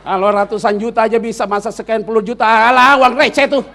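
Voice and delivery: hammed-up big-money swagger; mock bragging. Mock bragging about large sums.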